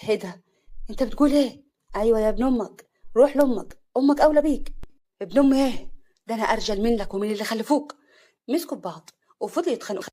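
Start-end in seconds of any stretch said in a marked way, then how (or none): 0.0-1.6 understated angry challenge, growing louder. Acted. Hassan confronting the new groom, mildly angry. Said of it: "حسن بغضب". 2.0-8.0 loud, taunting exchange of insults; quarrelsome. Acted. Rivals for Afaf insulting each other, loudly angry.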